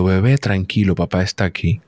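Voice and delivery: gently calm the baby, lightly retold; father soothing his crying newborn on the scale. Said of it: "yo le digo".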